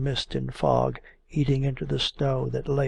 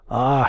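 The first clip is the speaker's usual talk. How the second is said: sudden loud gasp of surprise; a sharp cry as cold water hits her foot; startled ah; 9 dB louder than usual. A narrator's reading. Woman stepping into the puddle, startled cry. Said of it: "she suddenly exclaimed".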